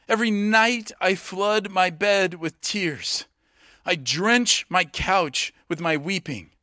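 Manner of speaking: slow, solemn scripture lament; measured, weighty recital of grief; melodramatic reading. Acted. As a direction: read the lament slowly and earnestly. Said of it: "a little melodramatic".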